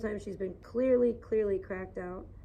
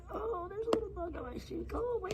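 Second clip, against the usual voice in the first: high, startled yelp at a bug; startled squeal; 11 semitones higher, 4 dB quieter, faster than usual. Real, not acted. Vlogger spots a bug on her shoe, squealing high.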